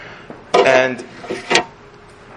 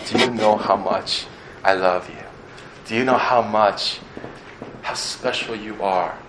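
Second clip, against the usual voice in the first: put-on tender to baby; 4 dB quieter than usual. Father talking to his baby son.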